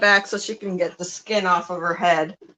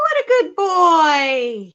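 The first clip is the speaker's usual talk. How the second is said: higher, slow and loud praise; drawn-out praise to a pet, raised up; slow louder praise; 4 semitones higher, 5 dB louder, slower than usual. Shown as a demonstration. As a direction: sing it out for the bird to copy. Modeling phrase for parrot.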